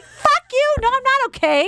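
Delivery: high, laughing retort; laughing mock snap. Answering the riders zipping past, high laughing snap. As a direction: fire it back, half laughing. Angry reply to passing riders.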